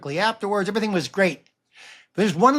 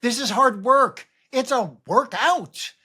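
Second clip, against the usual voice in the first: excited realization; 7 semitones higher, slower than usual. Retold or imitated. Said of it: "I was like".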